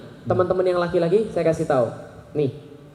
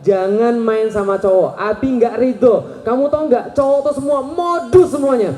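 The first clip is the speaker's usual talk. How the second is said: stern fatherly warning; 3 semitones higher, 3 dB louder than usual. Retold or imitated. Father warning his first-grade daughter off boys, mock-stern. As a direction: lay down the law like a protective father, building.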